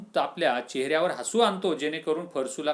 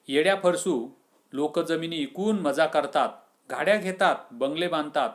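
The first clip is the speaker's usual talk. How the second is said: chiding friend; 2 semitones higher, 3 dB louder than usual. Acted. Friend mocking the stubborn farmer, loud scolding. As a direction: scold him for slaving all his life. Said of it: "असं कोण म्हणतो? आबू".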